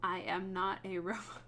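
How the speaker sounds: robot voice, cracking up midway. Shown as a demonstration. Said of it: "I always do it in a robot voice".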